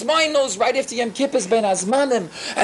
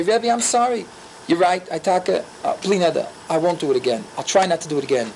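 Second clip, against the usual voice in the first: low-pitched, sincere admission; contrite apology; 6 semitones lower than usual. Acted. Student admitting fault to his Rebbe, contrite apology. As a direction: own up humbly, voice dropping low. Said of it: "You should say".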